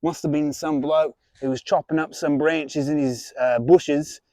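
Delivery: broad put-on Australian accent, hearty host; jolly Australian reptile presenter; Australian wildlife host. Plays a crocodile-hunter style host.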